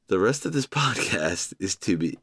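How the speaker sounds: a laugh breaking in mid-sentence. Real, not acted. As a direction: crack up partway through the line. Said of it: "I don't know why I'm laughing".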